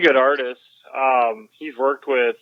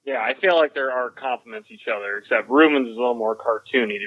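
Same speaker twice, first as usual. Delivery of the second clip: far away voice. Real, not acted. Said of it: "You sound like you're so far away".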